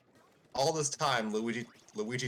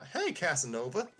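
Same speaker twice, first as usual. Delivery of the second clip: teasing; 6 semitones higher than usual. Acted. Parakarry teasing Luigi.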